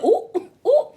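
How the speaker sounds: high, laughing ooh-ooh at the drama; gleeful ooh. Retold or imitated. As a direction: squeal it like juicy gossip. Reacting to the fight, laughing.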